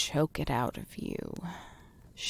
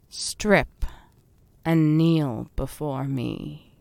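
menacing queen; 2 semitones lower than usual. Acted. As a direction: warn them darkly, savouring it. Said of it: "Serve your queen".

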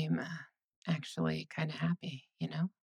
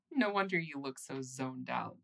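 ordinary talk

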